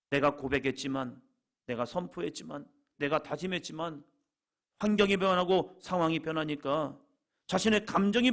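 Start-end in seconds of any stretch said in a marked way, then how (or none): none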